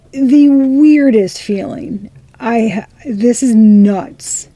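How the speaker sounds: high, loud, slow amazement; stretched, wondering exclamation; amazed. Real, not acted. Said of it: "I'm channeling an energy that's fucking blazed".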